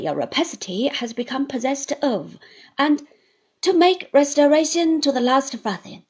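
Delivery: loud, deliberate terms; firm Traddles. Acted. Traddles sets terms for Uriah, firm and loud. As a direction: lay down the law.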